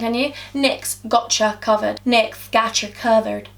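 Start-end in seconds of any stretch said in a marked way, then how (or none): 0.5-2.0 "Gotcha Covered" in a careful English accent. Shown as a demonstration. Vlogger testing a product name, English accent. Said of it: "You can't say that in an English accent". 2.1-3.5 "Gotcha Covered" in a shaky attempt at American; slow American "Gotcha", like "gatcha"; attempted American accent. Shown as a demonstration. Vlogger trying the product name, mock American accent. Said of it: "I can't even say it in American".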